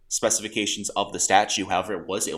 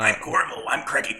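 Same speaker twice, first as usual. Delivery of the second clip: mock British Corvo. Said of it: "Corvo sounds very different now".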